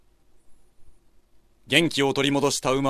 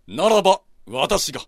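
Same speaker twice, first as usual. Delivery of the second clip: bold samurai voice; 5 dB louder than usual. Acted. Samurai volunteers boldly.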